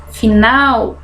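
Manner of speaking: "final" with a long, strong NAL; drawn-out NAL in "final"; stress on last syllable. Shown as a demonstration. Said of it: "a última sílaba é forte".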